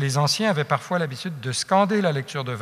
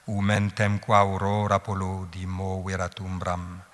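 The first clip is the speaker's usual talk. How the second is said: scansion lente et régulière, presque psalmodiée; réciter en battant chaque pied de l'hexamètre; vers latins scandés; 2 semitones lower than usual. Shown as a demonstration. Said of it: "c'est assez, je pense, pour vous faire sentir". (hexamètres latins scandés, longues bien tenues)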